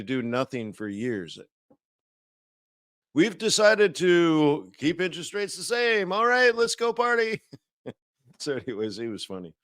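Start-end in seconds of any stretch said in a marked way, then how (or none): 3.1-7.4 mock French accent, raised higher and climbing; hammed-up French accent for a central banker off to party; a cheesy, half-hearted French accent; bad French accent. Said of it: "That's a terrible French accent".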